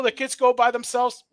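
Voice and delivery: talking through hiccups. Real, not acted. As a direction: hiccup between the words. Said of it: "I have the hiccups".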